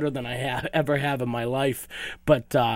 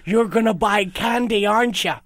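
put-on Irish accent; 5 semitones higher than usual. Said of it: "dialects and stuff".

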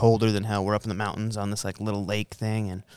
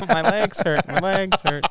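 put-on high, louder kid whine; whiny kid voice; 9 semitones higher, 3 dB louder than usual. Friend mocking the cousin, a high whiny kid.

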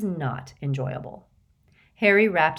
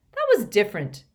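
robust; 4 semitones higher, 6 dB louder, faster than usual. A narrator's reading. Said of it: "he said robustly".

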